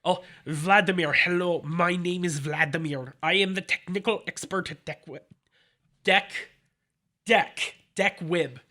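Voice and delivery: hammed-up bad Russian accent; a clumsy mock Russian salesman; weak fake Russian accent; terrible Russian accent. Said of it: "a terrible Russian accent".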